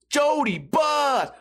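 slow, stretched mock shout; mock yell. Mocking the odd kid at the hockey game, shouted. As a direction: draw the yell out at him.

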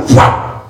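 sudden loud "fua" whoosh; a burst of effort as sound effect; imitated yank noise. Preacher acting out grabbing his wife's leg, imitated yank noise.

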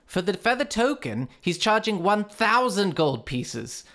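put-on shopkeeper listing prices in Swedish accent. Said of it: "the accent is brutal".

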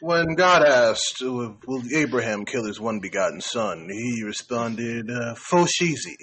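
slow, grand scripture voice; booming biblical narration. Pretend. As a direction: intone it like a preacher. Mock biblical reading with slang.

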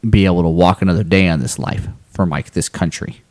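solemn sincere speech. Real, not acted. Solemn personal testimony.

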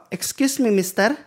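high, pleading foreign woman's voice; a lightly accented woman asking a stranger; imitating the Polish woman. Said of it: "hon bara".

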